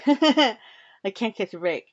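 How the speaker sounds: slow, laughing through the words. Real, not acted. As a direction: laugh it out in disbelief. Laughs at her own bad luck.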